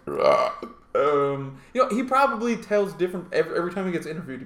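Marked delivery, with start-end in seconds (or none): 0.1-0.5 low throaty grunt, mimicking him; mock guttural noise. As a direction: imitate his wordless grunt. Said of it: "he's just like".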